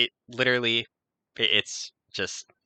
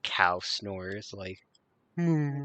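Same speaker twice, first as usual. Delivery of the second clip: mock cow moo; much slower than usual. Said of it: "just kinda maybe doing".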